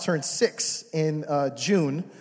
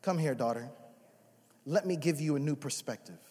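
gentle voice of God. Pretend. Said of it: "He says".

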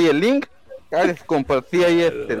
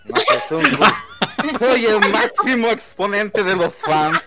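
smug superfan. Acted. Plays arrogant superfan persona.

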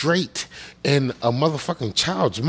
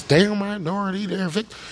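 higher-pitched mocking singsong; mock-sympathetic refrain, pitched up; mocking parroting; 5 semitones higher than usual. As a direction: parrot a tired talking point in a high voice. Mimicking the same refrain again.

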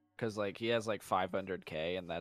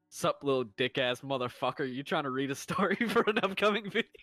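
retold cheeky message, climbing higher into a laugh; quoting a brash message; 4 semitones higher, 3 dB louder than usual. Host quoting a friend's crude request, brash and breaking into laughter. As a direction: read it out brashly, pitch rising as laughter breaks in. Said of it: "he's like".

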